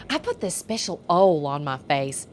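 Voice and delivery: lightly imitated Southern twang; Southern accent imitation. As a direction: say oil as "Ole", Southern style. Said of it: "My favorite was Ole".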